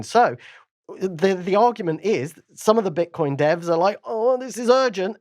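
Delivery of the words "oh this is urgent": much higher, worried voice; high-pitched pretend urgency; mock alarm. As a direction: imitate someone in a mild panic. Voices worried Bitcoin developers.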